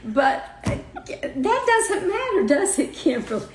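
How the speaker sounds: high-pitched, laughing through tears; tearful laughter. Real, not acted. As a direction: laugh as the tears start to come. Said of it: "already got me crying now".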